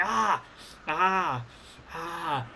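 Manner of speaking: understated drawn-out "ah" cries of pain; soft acted moans, each one fading; mock pained groans. Game master voicing an injured wrestler clutching a leg, mock pained groans. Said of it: "in searing pain, and you're just grabbing at it like".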